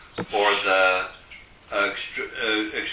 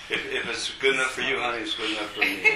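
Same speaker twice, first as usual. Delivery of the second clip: playful flirting; 3 dB quieter, faster than usual. Pretend. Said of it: "I'm flirting with you".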